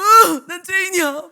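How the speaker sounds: loud, drawn-out imitation sob; exaggerated crying confession; mock wailing. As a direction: wail like a repenting kid, hammed-up. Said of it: "막 이러면서 어마어마하게 울어요".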